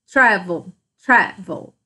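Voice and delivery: "travel" repeated with TRA stressed; stress on first syllable. Shown as a demonstration. Teacher showing the strong syllable, TRA stressed in "travel". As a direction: lean on the opening TRA of "travel". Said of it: "o meu tra é a sílaba mais forte".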